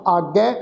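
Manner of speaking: ਆਗੈ ending in an open ai; double-lavan vowel. Shown as a demonstration. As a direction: say ਆਗੈ as aagai, not aage. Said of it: "ਗੱਗੇ ਉੱਤੇ ਦੁਲਾਵਾਂ ਦਾ ਪਾਠ".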